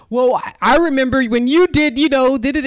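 mock whiny quote. Mocking quote of a jug holder.

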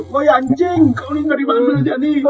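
affectionate greeting. Retold or imitated. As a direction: greet a missed buddy with rough affection. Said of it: "itu ekspresi rindu".

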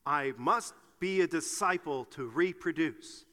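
slow, firm recitation with gusto. Shown as a demonstration. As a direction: say it emphatically, word by word. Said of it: "let's say it with gusto".

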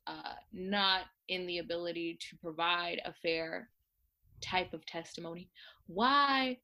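lightly voiced dignified grande dame; Felicia Rashad. Actress defending her colleague in a debate, dignified.

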